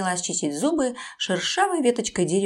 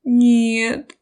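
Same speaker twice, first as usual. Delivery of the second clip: whimpering; 3 semitones higher, 4 dB louder, slower than usual. Acted. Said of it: "прохныкал крокодил".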